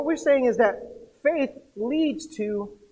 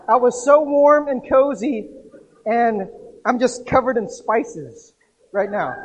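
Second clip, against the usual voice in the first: whiny Lazarus; 2 semitones higher, 7 dB louder, slower than usual. Retold or imitated. Lazarus complains after being raised.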